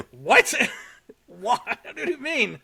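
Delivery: high, rising disbelief in the voice; shocked girl. Acted. Girl hearing she's called an alien, shocked and high. Voicing the girl's shocked reaction.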